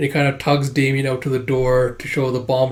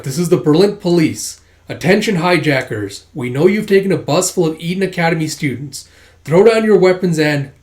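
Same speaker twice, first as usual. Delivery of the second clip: raised, louder official order; police announcement; 4 semitones higher, 5 dB louder than usual. Acted. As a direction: address the hijackers with authority. Police address the hijackers.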